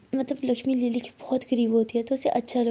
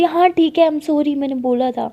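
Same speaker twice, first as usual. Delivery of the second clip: loud, higher, caught-out confession; flustered admission; 3 semitones higher, 6 dB louder than usual. A narrator's reading. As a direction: blurt it out, giving up. Lakshmi हार मानकर कबूल करती. (लक्ष्मी घबराकर ज़ोर से मान लेती है)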